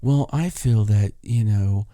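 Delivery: a hint of a breathy, gushing sweet-talker; lightly voiced fake-gentle flatterer; half-whispered mock tenderness; mocking his soft public voice. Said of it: "he talks like this".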